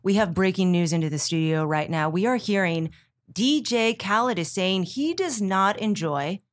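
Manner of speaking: breaking-news anchor read; polished, urgent breaking-news delivery. Shown as a demonstration. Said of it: "So to get into your anchor voice".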